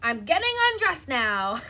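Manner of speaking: announced through a laugh; laughing announcement. Retold or imitated. Telling the family she's undressing, laughing. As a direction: call it out while laughing. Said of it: "I let it be known, like".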